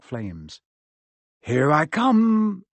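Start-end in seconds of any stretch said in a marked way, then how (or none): 1.4-2.6 high, louder, drawn-out call; bracing call. Acted. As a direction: brace yourself and call it out slowly. Harry steps into the flames.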